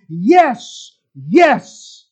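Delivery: imitating an emphatic, delighted yes; mildly hammed-up cheerful exclaiming; Mia's cheerful celebration. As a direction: act out celebrating a granted wish. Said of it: "go into celebration mode and emphatically and cheerfully exclaim".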